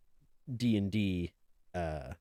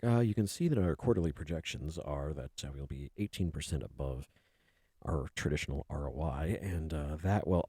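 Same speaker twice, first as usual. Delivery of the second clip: business presenter; 4 semitones lower than usual. Acted. Someone presenting quarterly projections in a business meeting, businesslike. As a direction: lightly act a dry presenter going through figures.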